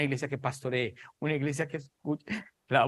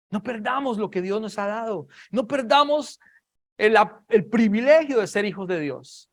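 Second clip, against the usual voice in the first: raised, urgent pulpit appeal; fervent exhortation; 7 semitones higher, 4 dB louder than usual. Real, not acted. Preacher pleading with believers not to lose their privilege, fervent and raised. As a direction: urge the congregation with rising fervour.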